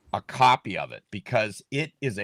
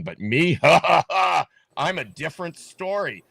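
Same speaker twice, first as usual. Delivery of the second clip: mocking a smug chuckle, pitched up; mock smug laugh; 3 semitones higher, 4 dB louder than usual. Candidate mimics rival's smug laugh, mock laughing. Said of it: "he's smugly laughing".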